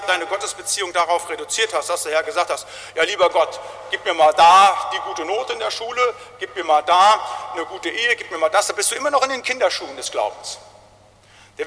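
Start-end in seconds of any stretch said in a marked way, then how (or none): 2.9-8.7 louder, casual mocking wish list; mock shallow prayer. Pastor mocking an immature believer's prayer, scornful. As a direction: mimic a childish prayer with scorn.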